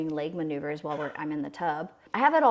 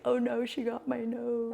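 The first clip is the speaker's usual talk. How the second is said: higher-pitched mock dismayed "oh no"; retold dismay; 6 semitones higher than usual. Mother recalling first sight of her newborn, retold dismay. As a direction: lament it in a raised voice. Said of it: "I'm just like".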